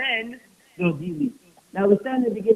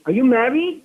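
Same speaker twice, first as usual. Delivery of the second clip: upset demand; 5 dB louder than usual. Retold or imitated. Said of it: "He got so upset".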